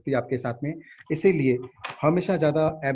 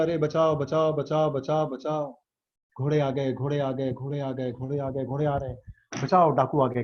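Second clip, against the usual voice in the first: rapid repeated cries for help, held down in volume; mock panicked crying out; 3 semitones lower than usual. Villager fooled by bandits in a movie, mock panicked cries. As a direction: play-act a naive man's panic. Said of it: "और चिल्लाने लग गया".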